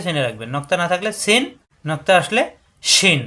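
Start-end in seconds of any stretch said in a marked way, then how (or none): 2.8-3.2 শিন opened with a full airy sh; hushing breath sound. Shown as a demonstration. Teacher showing the letter's breath sound, hushing শিন. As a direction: let breath rush through the sh of শিন. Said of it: "শ্বাস আওয়াজ হবে".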